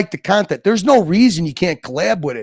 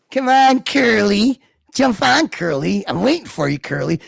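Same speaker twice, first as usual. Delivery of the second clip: taunting call. Real, not acted. Taunting Curly to join.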